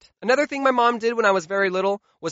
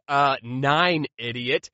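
dumb insult; 5 semitones lower, much slower than usual. Retold or imitated. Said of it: "And I would say".

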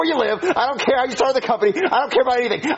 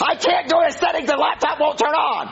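raised, high-pitched frustration; exasperated; 4 semitones higher than usual. Acted. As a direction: protest like a customer at the end of their rope. Exasperated customer quarrels with support agent.

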